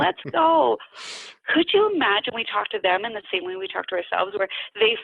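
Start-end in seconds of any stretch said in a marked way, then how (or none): 0.0-0.8 put-on incredibly annoying, high baby-talk voice, coaxing and cheering. Showing how people cheer on a toddler learning to walk: incredibly annoying voice. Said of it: "you use this incredibly annoying voice".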